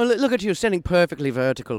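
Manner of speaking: put-on, cartoon-style Irish accent. Asked for his famous line, a co-host delivers it in an Irish accent. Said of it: "There's his Irish".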